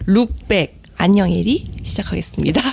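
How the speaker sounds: staccato. Shown as a demonstration. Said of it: "그럼 아예 스타카토로 얘기를 하지".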